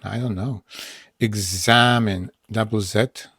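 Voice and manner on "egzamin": "Egzamin" slow with a long middle "za"; stressed syllable. Shown as a demonstration. Teacher explaining the double Z, slow stressed syllable. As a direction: lean on the "za" in "Egzamin". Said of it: "bo akcentujemy".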